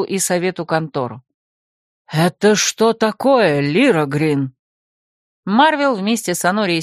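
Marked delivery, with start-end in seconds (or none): 2.1-4.5 low, slow angry call across the room; rector's shout. Acted. Rector shouts at his secretary, low and slow. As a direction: bark her name from the doorway. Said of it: "обернулись на крик ректора".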